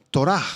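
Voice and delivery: Torah said with the accent on the final A; Hebrew pronunciation. Shown as a demonstration. Preacher models the Hebrew word Torah, final-syllable stress. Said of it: "con H al final y acento en la A".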